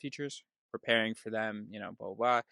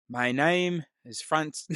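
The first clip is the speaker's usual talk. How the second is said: slow, higher attempt at an accent that lands Irish; accidental Irish accent; 4 semitones higher, slower than usual. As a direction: slowly fumble into a rough Irish accent. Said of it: "I'm not Irish".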